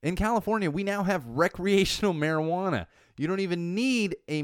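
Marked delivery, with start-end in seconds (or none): none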